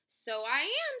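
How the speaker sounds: light up with delight. A narrator's reading. Hedgehog realising he is the prickliest, delighted.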